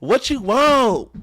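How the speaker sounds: high-pitched mock impatience; impatient. Wife to the man at home, no patience. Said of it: "No patience, nothing".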